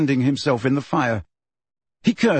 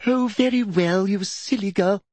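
high exasperation dropping away; exasperated snap, not shouted; snappish; 6 semitones higher than usual. A narrator's reading. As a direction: give up on her irritably. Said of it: "snapped Umbridge".

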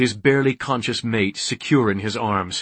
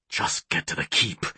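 low, hushed self-urging; inner urging; 7 semitones lower, 6 dB quieter than usual. A narrator's reading. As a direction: urge yourself on under your breath. Hero's urgent thought to himself.

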